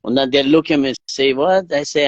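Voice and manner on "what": higher, startled little question; retold double take at what was heard; taken aback. Onlookers react to cyclist calling himself terrorist, taken aback.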